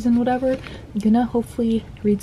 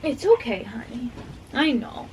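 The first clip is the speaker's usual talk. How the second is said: soothing the dog; 3 semitones higher than usual. Real, not acted. Owner soothing her anxious dog during the storm, gentle coo.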